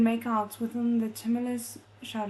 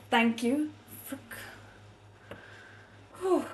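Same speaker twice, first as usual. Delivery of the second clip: emotional; 2 semitones higher than usual. Real, not acted. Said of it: "I'm getting way too emotional".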